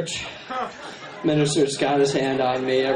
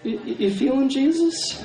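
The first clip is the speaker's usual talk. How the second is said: minister voice; 6 semitones higher than usual. Retold or imitated. Minister questioning Eric at church.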